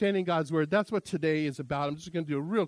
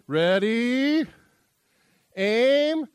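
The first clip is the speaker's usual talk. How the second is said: loud, higher barked firing orders; hunter's command; 5 semitones higher, 5 dB louder, much slower than usual. Acted.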